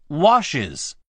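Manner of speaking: "washes" with iz after the sh. Shown as a demonstration. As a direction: say washes in two syllables, ending iz. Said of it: "イーエスの部分をisと".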